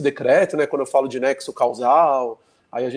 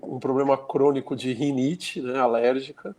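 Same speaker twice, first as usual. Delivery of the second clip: rhinitis-stuffed nose; blocked nose. Real, not acted. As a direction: talk through a congested nose. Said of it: "aí o nariz não fica muito bom não".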